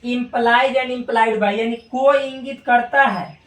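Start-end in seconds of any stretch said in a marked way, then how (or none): 0.0-1.5 very slow, every word drawn out; slow read-aloud. Shown as a demonstration. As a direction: read it slowly for the class to copy. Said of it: "पढ़ दे रहे हैं बार बार".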